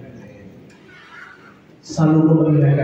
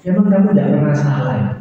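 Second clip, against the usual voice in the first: God's voice; 2 semitones lower, faster than usual. Retold or imitated. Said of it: "Saya ingat kata-katanya".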